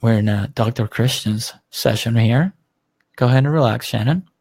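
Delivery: therapist voice. Pretend. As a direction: ease her in like a counsellor. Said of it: "Let me use my therapist voice".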